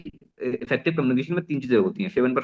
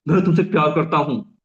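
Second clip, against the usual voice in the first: a lightly louder, sincere confession of love; good tender tone; 2 semitones higher, 4 dB louder than usual. Shown as a demonstration. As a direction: say it like you truly mean it to them. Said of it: "एक अच्छी tone में करते हैं ना". (सच्चे प्यार भरे लहजे में)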